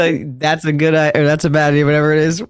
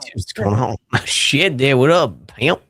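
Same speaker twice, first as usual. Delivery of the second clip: mock dude voice; 3 semitones lower than usual. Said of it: "I don't think he would sound like that".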